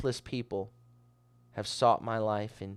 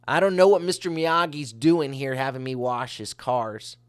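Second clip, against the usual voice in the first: puzzled protest, pitched up; mock grumbling student; 3 semitones higher, 6 dB louder than usual. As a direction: grumble like a put-upon pupil, half in play. Voices a baffled student's grumbling.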